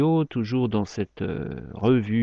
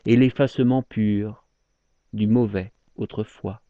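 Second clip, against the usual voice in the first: measured verse, each phrase set apart; poem recitation. Acted. Speaker confesses to a lover they loved badly, poem recitation. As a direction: let each line of regret settle before the next.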